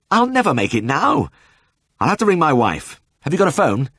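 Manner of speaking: fretful panic over the lost evening; frantic pleading. A narrator's reading. Vet pleading with old Ted for a phone, high and frantic.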